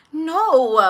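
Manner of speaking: high, drawn-out no; emphatic denial. Retold or imitated. Teenager answers doctor's question, high drawn-out acted denial. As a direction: stretch the denial upward. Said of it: "So I'm just like".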